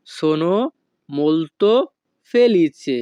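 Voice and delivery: "Sono", "molto", "felice" said apart with pauses; word by word. Shown as a demonstration. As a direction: break it into single words.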